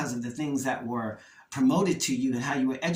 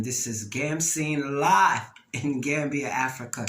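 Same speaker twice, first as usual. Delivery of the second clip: passionate show intro with a drawn-out, punched LIVE; 5 dB louder, slower than usual. Real, not acted. Host happy to be here welcoming listeners, passionate. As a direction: announce the show with proud passion, stretching it out. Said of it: "I say that so passionately".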